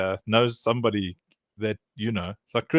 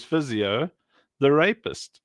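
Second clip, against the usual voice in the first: "physio", then a pause, then "the rapist"; deadpan reading of "physio, the rapist" with a gap; split into separate words; slower than usual. Shown as a demonstration. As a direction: break "physio, the rapist" apart for the punchline. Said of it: "as if it was all, like, one word".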